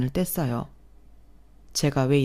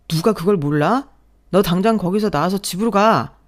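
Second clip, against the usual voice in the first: angry phone yell; 3 semitones higher, 5 dB louder than usual. Acted. Husband yelling over the phone.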